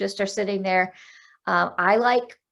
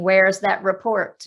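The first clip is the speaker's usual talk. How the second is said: mock demanding boss; 5 dB louder than usual. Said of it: "when your boss is saying".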